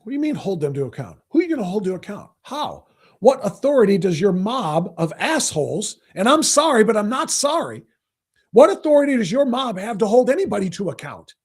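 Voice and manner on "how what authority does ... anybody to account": angry rant. Real, not acted. Host demanding what authority the mob has, angrily. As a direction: hammer the question home in anger. Host ranting at protest reporter.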